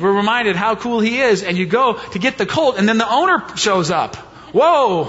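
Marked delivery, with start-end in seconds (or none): 4.5-5.0 mock surprise. Owner voiced in the retelling.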